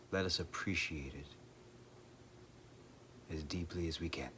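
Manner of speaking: measured meditation delivery with long pauses; guided meditation. Acted. Speaker leading listeners in reflection on impermanence, guided meditation. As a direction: reflect gently, leaving long silences between phrases.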